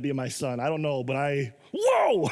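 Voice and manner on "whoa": loud, very high startled shout; comic shriek of alarm; scared whoa. Retold or imitated. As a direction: re-enact jumping in fright. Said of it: "When I get scared".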